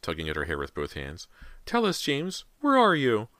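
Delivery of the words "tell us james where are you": high, desperate mother's cry; shrieking. A narrator's reading. Mother calls to missing son, high shriek. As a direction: cry it out high, louder at the end. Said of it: "Callie's mother shrieked".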